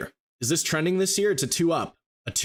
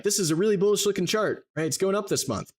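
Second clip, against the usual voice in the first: high, eager mock optimism; naive bullish trader; 6 semitones higher than usual. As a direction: play the gullible chart reader, thrilled. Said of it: "you're like".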